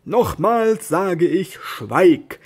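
a knight ordering his squire to be silent, slow and angry; angry command. Acted. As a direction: draw out the command, then bark schweig. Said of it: "Don Quixote wurde ernstlich böse".

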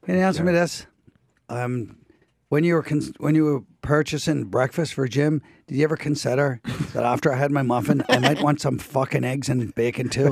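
put-on Irish accent. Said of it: "Hey, Colin".

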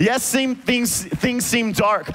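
rising, sung-out preaching over music; preacher building to a climax over the band. Acted. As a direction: lift it into a preaching cadence.

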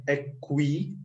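"aqui" with the u sounded, ah-KWEE; mispronounced aqui. Retold or imitated. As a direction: imitate a learner saying "aqui" as ak-wee. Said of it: "It's not aqui".

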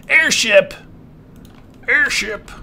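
high, bright shout of the word; excited cheer. Real, not acted. Player cheering about his airship plan, excited. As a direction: celebrate the plan.

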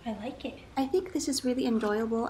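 mug against lips; words between sips; speaking while sipping coffee. Real, not acted. Seen 0: Mug pressed to lips, drinking through 1.3s, then lowered.

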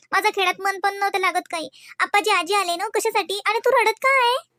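put-on a small child worried about her mother; little girl. Little daughter asking her mother.

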